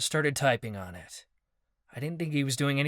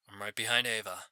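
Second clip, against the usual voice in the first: a lightly lowered stranger's voice; a man disguised by a potion, a touch deeper; deeper, unfamiliar voice; 3 semitones lower, 5 dB quieter than usual. Acted. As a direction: Marcus under a potion, barely changed voice. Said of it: "his voice sounded deeper and unfamiliar".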